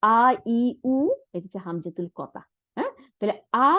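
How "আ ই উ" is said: আ, ই, উ drawn out clearly; vowel sounds. Shown as a demonstration. Teacher sounding the vowels of hamzatul qata for students. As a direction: sound out each vowel one at a time. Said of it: "তার মানে আ".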